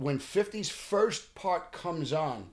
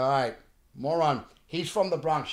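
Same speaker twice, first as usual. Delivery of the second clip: mocking insistence; 5 dB louder than usual. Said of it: "And I go".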